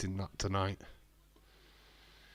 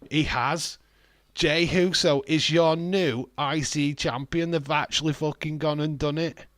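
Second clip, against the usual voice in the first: loud, high title-win call; real excitement; 5 semitones higher, 6 dB louder than usual. Real, not acted. Streamer celebrating the title win with chat. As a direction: yell the count and the new champ.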